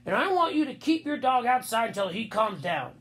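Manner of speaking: lightly voiced stern man; a hint of a firm adult; stern grown-up. A narrator's reading. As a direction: lay down the rule, mildly stern. Henry tells the boy off.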